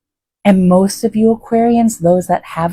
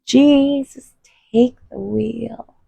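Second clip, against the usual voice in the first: higher pleading; 4 semitones higher, 4 dB quieter, slower than usual. Acted. Pleading prayer, repeated higher.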